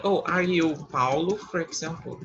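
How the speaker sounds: slow example question. Shown as a demonstration. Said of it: "como é que eu vou dizer?".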